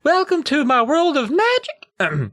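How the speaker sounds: high and slow, trying to sound grand; steady the nerves and announce it; slow squeaky announcement. Acted. Brady retries his grand stage opening, high and slow. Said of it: "My voice squeaked a little on the word magic".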